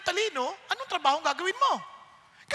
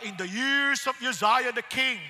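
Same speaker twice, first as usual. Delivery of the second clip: slow, put-on reading voice; scripture reading; 3 semitones lower, slower than usual. Imitating a president reading scripture aloud, slow put-on recital. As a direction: mimic a measured public scripture reading. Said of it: "scripture reading, sabi niya".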